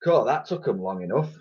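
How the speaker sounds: Dotty muttering dryly. Acted. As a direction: mutter it under your breath. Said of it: "muttered Dotty".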